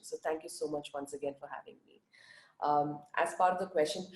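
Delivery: early-morning groggy voice; a groggy, just-woken voice. Real, not acted. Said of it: "sorry for my groggy voice".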